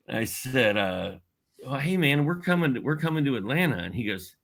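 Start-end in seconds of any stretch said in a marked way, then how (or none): 1.6-3.8 higher-pitched, lightly acted nervous pitch to an idol; nervous young caller. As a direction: re-enact an eager kid on the phone. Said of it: "I remember being super nervous".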